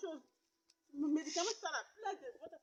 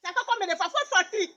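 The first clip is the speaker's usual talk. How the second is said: louder, firm order to get out; angry dismissal; 4 semitones higher, 5 dB louder than usual. Acted. Woman orders the persistent suitor out, angry. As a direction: order him out, rising anger.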